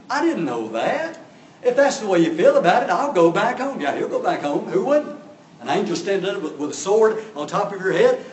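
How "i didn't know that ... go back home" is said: mock whine, rising higher and louder; whiny, wheedling. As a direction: whine your way out of trouble. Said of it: "with a whiny, wheedly voice".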